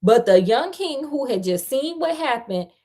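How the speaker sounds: fairy tale read out with emphasis; story narration. A narrator's reading. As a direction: tell it like a lively storyteller. Reads the fairy tale aloud.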